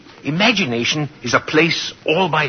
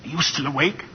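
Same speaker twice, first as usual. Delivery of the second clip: much softer, gently checking if she sleeps; soft bedtime call; 9 dB quieter than usual. Acted. At her bedside at night, calling softly. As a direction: ease her awake without startling.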